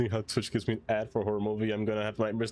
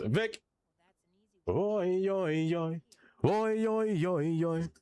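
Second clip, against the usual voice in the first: calling out; 5 semitones higher, much slower than usual. Real, not acted. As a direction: shout oi across the game. Calling out to friend Vic.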